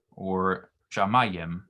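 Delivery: shamayim said slowly with a lengthened accented vowel; pausal form demo. Shown as a demonstration. Tutor repeats the pausal shamayim slowly for a student. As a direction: draw out the stressed vowel of shamayim. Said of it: "For example".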